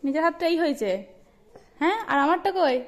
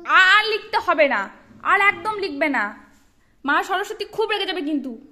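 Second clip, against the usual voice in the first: stern scolding; 4 dB louder than usual. Real, not acted. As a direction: lay down the law, word by word. Mother scolds child writing on hands.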